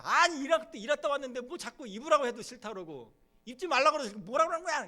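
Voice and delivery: loud, high, furious outburst; angry husband shouting. Acted. Husband yelling at wife after work. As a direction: shout him down, fed up.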